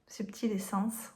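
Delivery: whispering "Subtil Essence" with each sound clear; quietly fixing her own slip, saying "Subtil Essence"; corrected name, whispered. Shown as a demonstration. Vlogger whispers the corrected deck name to herself. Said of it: "moi avec mon accent".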